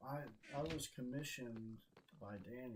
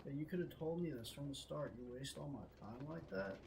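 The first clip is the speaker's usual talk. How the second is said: mildly heated protest; retold anger; 2 semitones higher than usual. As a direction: accuse him as if retelling the row. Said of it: "I was really fucking mad".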